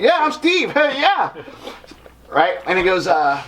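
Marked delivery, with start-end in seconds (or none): 0.0-1.3 high, awkward nervous answer with a laugh; awkward starstruck fan, laughing. Retold or imitated. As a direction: stumble out your name, pitched up. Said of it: "I'm like".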